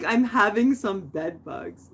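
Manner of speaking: slow, lightly imitated Indian accent; upset Indian neighbor. Upset neighbor complains about bed bugs, slow mock Indian accent. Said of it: "He was so upset".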